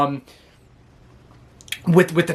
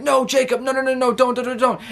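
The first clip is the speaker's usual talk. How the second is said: high, frantic pleading; raised, hurried plea to stop; mock pleading officials; 8 semitones higher than usual. Officials begging Jacob to stop, high frantic pleading.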